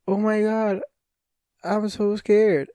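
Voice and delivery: high, hammy fake scared voice; bad horror movie acting. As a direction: overact fear like a spoof movie victim. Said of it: "acting from ... the Scary Movie".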